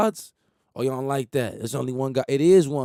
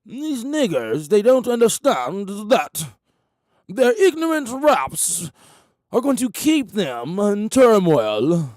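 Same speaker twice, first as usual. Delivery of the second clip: rich white man voice; 5 semitones higher, 5 dB louder than usual. Retold or imitated. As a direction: play the rich man scheming out loud. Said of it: "You like my rich white man voice?".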